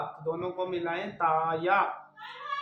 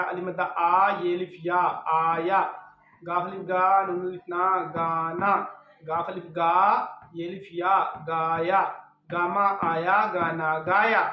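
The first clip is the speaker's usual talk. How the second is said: louder, deliberate syllable-by-syllable reading; spelling drill; 4 dB louder than usual. Shown as a demonstration. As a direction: call out each letter clearly for a child to repeat. Teacher spells syllables aloud.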